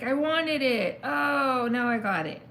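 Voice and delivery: a mock excited grab, then sudden alarm; voicing the viewer. Reader voicing an indecisive Libra, mock panic. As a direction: play the torn Libra, high and loud. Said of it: "you could be like".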